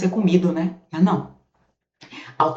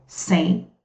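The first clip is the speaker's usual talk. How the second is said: slow, spaced-out dictation of "Sem alteração fonética"; dictation pace; slower than usual. Shown as a demonstration. Teacher dictating slowly so students can copy. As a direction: dictate it word by word for note-taking. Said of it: "ó".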